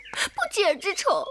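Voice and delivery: a sobbing cry of hatred; tearful outburst over old wrongs; crying shout. Acted. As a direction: choke out the grudge through tears. Wife vows lasting enmity.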